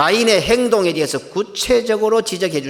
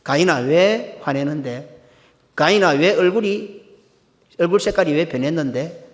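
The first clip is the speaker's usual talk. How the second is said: pointed reproof. Acted. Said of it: "정확하게 지적하십니다".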